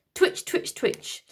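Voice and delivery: unvoiced twitch twitch; whispered twitch. A narrator's reading. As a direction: breathe it like little twitches. Robot arm twitching.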